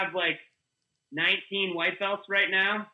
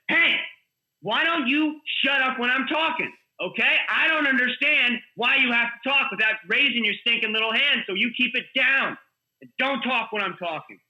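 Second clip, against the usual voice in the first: mock teacher yelling; 5 semitones higher than usual. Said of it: "screaming at him".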